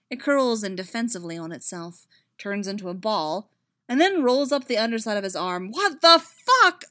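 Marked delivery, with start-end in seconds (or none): 5.7-6.8 loud, slow, drawn-out disbelief; shocked exclamation. A narrator's reading. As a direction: blurt it out in shock. Sudden shock at spider robot.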